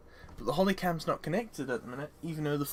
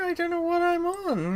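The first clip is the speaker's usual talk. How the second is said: high, louder sing-song repeat; 4 dB louder than usual. Shown as a demonstration. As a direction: push it up high and loud.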